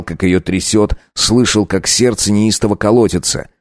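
plain reading voice

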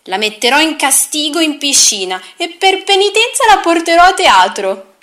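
high, loud stubborn doll; a lightly voiced rebellious doll; defiant doll voice.

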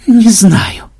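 high, loud, laughter-choked answer; squeezed through laughter. A narrator's reading. Programmer answers granddaughter mid-fit, squeezed through laughter. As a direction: force the words out through laughter. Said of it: "выдавил сквозь смех Ксенобайт".

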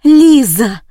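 loud, high shout of a name. Acted. Maria Timofeevna sees Liza alive, loud high shout. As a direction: cry out in shock. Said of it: "закричала Мария Тимофеевна".

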